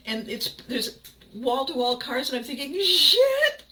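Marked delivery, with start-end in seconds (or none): 2.8-3.6 high shouted laughing curse; loud laughing curse. Retold or imitated. Driver spotting wall-to-wall cars, loud laughing curse. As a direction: blurt it out at the top of the voice. Panicking at full car park.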